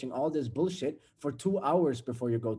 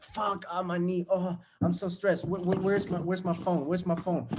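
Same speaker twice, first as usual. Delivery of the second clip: stressed pain; 5 semitones higher than usual. Pretend. Hits knee, stressed rush.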